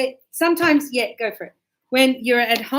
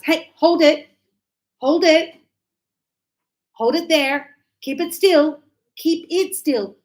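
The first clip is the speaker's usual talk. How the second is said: loud, firm commands; calling out instructions; 3 semitones higher, 4 dB louder than usual. Pretend. A glass worker calling to a coworker to hold the glass, loud and firm. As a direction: call across the site to a coworker.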